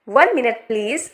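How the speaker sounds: one minute please, said slowly word by word; slow model reading. Shown as a demonstration. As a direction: draw each word out for learners. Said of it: "इन सभी sentences को आपको बोलने की practice करनी है". (धीरे-धीरे, हर शब्द अलग बोलें)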